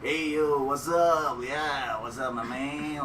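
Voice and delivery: lightly mocking white American accent. Comic mimicking white folks onstage, white American accent. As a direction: put on a breezy American greeting. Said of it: "doing an American accent, like, a white accent".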